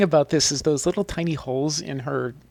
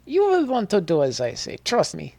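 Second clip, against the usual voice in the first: put-on Russian accent; 6 semitones higher than usual. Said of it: "read his flavor text in a Russian accent".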